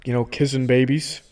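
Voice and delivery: softly tossed-off politician voice; Bernie Sanders. Acted. Politician guest tells host about campaigning, light soft impression. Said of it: "Hey, Bernie, what's going on".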